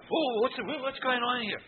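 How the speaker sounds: high, loud, drawn-out sergeant bellow; mock drill sergeant. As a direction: bellow it like the big moustached sergeant greeting recruits. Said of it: "walked around the corner and said".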